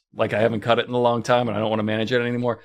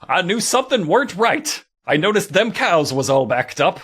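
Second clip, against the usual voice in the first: hammed-up, higher-pitched hillbilly accent; bad hillbilly accent; 4 semitones higher than usual. Shown as a demonstration. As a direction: do an overblown movie-star hillbilly accent. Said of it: "this would be the accent".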